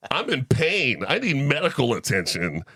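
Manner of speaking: laughing mock complaint. Real, not acted. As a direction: chuckle while telling it. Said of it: "laughing recounting pain".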